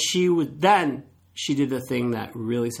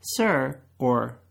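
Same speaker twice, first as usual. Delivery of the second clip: calm tip delivery; slower than usual. Shown as a demonstration. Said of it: "this is what you say".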